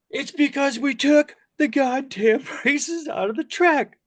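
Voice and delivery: high, slow, furious telling-off; angry outburst. Retold or imitated. Grip unloading on the director of photography, high-pitched and furious. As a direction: let him have it, word by word. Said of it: "he just unloaded on the D P".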